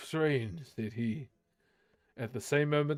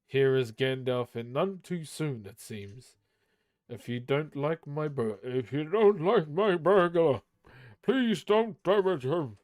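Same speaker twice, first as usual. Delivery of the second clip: movie Gandalf impression; 3 dB louder than usual. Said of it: "trying to sound like him in the movie".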